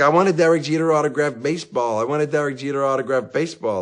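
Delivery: put-on high, loud child's whine, repeated; a kid nagging over and over; whiny kid like a broken record. Son nagging dad for a signed baseball, high loud whine. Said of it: "like a broken record".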